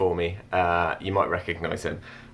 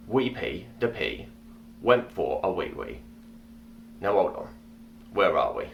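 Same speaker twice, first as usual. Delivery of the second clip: story narration; 3 dB quieter than usual. Acted. Reads his story aloud.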